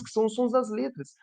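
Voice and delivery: usual speaking voice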